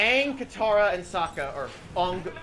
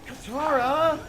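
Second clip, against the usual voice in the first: flat, bored call of Katara; bored mock call; monotone and bored; 6 semitones higher, 3 dB louder, slower than usual. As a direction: say the name like you couldn't care less. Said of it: "Fucking monotone and bored".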